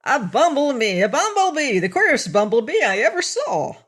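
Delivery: high, loud alarmed cries; frightened little man shouting; crying out. Acted. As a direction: swat at a bee, yelling. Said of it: "crying out".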